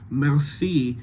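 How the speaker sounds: "merci" with a French R, mer-SEE; French-style R and end stress on "merci"; velarized French R. Shown as a demonstration. Coach recalls the actor's example, velarized R. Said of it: "because you're velarizing that R".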